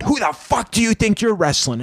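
high, belligerent put-on voice; Sandman. Drunk wrestler who won't let the newcomer be, high belligerent rant. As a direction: push the pitch up and get in his face. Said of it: "this is me doing my Sandman".

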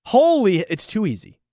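sudden high yelp of disbelief; high burst of disbelief; surprised exclaim. Real, not acted. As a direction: blurt it out in shock. Shocked at easy betting line.

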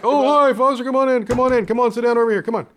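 high, loud bright dad welcome; eager dad. Retold or imitated. Dad welcoming his son, a high loud eager greeting. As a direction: usher him in eagerly, voice high.

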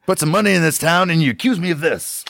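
put-on high offended Western accent; wronged outlaw in a Western accent. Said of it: "our outlaw voices are always, a Western".

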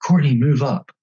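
high yelled call; retold yell. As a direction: shout it from the roadside. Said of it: "I yelled".

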